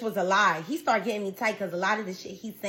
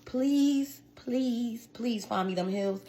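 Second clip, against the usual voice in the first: whispered plea; much slower than usual. Real, not acted. Begging viewers to find his heels, in a whispered plea.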